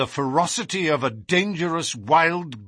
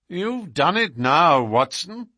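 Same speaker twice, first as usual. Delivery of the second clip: cool, unhurried remark; 4 semitones higher, 4 dB louder than usual. Acted. Holmes coolly blames Watson for the spill, unhurried. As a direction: say it coolly, as if nothing happened. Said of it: "said he coolly".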